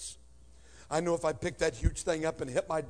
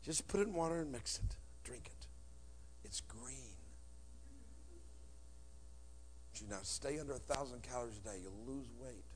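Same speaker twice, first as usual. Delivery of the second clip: much softer, lower, understated; deadpan mom quote; 5 semitones lower, 15 dB quieter than usual. Retold or imitated. The speaker retelling mom's green-drink advice, hushed deadpan. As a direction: mumble her diet orders flatly.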